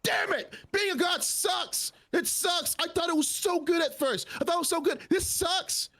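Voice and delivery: high, exasperated venting; frustrated rant. Real, not acted. Player venting to the GM in a high whine.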